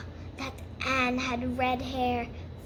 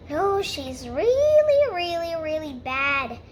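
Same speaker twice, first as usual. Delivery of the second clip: indignant; 4 dB louder than usual. Acted. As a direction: stretch it out in acted outrage. Rachel complains indignantly about Anne.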